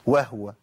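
"وهو" as wah-wa; stilled H. Shown as a demonstration. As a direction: drop the u after the H of "وهو". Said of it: "سهل قوي إن أنا أسكنها". ("وهو" بتسكين الهاء)

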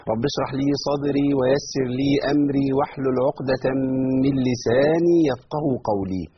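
slow recited supplication, last line drawn out; solemn Quranic prayer tone; opening prayer. Acted. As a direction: recite the opening dua calmly.

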